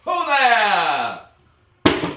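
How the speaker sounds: big, high, hammy actor's hail; theatrical booming hello; booming theatrical greeting. Acted. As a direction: boom it out like a ham actor on stage.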